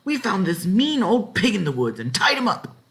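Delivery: put-on high, eager boy; proud boys reporting; high excited boy; boy's voice.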